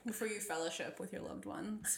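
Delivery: soft, voiceless whisper. Acted. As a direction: breathe it like a secret. Joking aside about saying grace.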